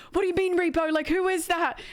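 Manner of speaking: high-pitched mock-panicked friend; imitated panic. Streamer imitates friend hearing about the repo, high and panicky. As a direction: act out a friend thrown into alarm. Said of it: "she's like, starts panicking".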